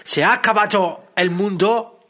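reading a comment in a put-on English accent, slow; mock English accent. Host reads a listener's comment for the show, in a mock English accent. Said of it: "lo voy a poner en acento inglés".

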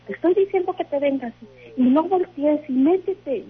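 mock insistent telling-off; retold scolding order. Grandmother's retold scolding while dragging her.

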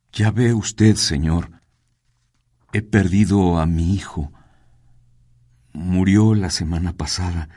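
voz ahogada. Acted. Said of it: "contesta con voz ahogada".

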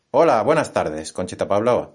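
loud cheery host hello; radio host greeting. Acted. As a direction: greet the caller like a DJ.

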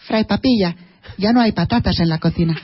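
put-on Marcelino child voice. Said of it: "que la dice Marcelino".

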